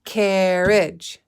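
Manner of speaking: Carriage split into two clapped beats, CAR-riage; clapping syllables. Shown as a demonstration. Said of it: "Now let's clap it".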